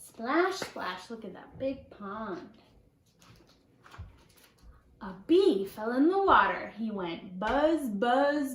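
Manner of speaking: sing-song picture-book narration; reading to children. A narrator's reading. Storyteller reading an animal picture book, lively narration. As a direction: read to little ones with swooping emphasis.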